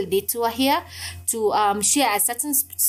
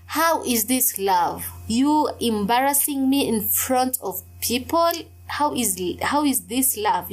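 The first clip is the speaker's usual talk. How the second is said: puzzled inner voice. Retold or imitated. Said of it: "I'm saying it internally in my thoughts".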